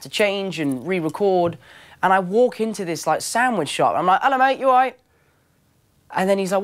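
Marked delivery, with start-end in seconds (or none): 4.2-5.0 high, loud English greeting; full English accent. Retold or imitated. Actor walking into a sandwich shop, full English. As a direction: greet them in broad everyday English. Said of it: "where I went full English".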